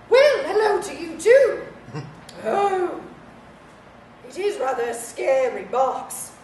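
lightly voiced grand old lady; a hint of a teasing dowager; frail withering duchess. Voices the stuffed toy.

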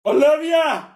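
loud, high shout of a name; sharp shout. Acted. Teacher yelling at a rowdy student. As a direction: snap the name out.

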